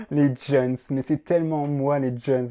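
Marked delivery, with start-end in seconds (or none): 0.1-0.8 playing the beauf. Joking about young people like a beauf, hammed-up exclamation. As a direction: do a tacky uncle exclaiming, mock-delighted. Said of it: "faire le beauf comme ça".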